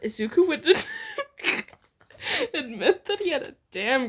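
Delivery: reading through laughter; giggling at the swear; cracking up mid-sentence; laughing. Real, not acted.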